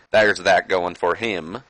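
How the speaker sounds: slipping into a southern drawl; drawn-out, accidental southern accent. Real, not acted. Wrestling host wrapping up a score, accidental southern twang. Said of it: "I got a southern accent".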